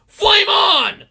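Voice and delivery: very high, full-out heroic shout; shouted catchphrase. Acted. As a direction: yell it like a superhero powering up. Acts out superhero's battle catchphrase.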